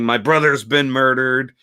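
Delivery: mild mock yell, bursting out on the question; retold scream. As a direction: imitate an outraged screamer, only half full out. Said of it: "he's just screaming".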